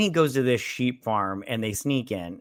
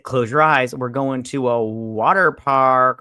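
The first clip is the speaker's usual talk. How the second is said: a touch louder, slowed tease to a daughter; playful loud announcement; 6 dB louder, slower than usual. Retold or imitated. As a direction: make the surprise sound big, slowly. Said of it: "And he's like".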